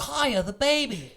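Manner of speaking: high, slow put-on voice; movie character voice. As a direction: stretch it out in a squeaky character voice. Quoting Willow in a voice.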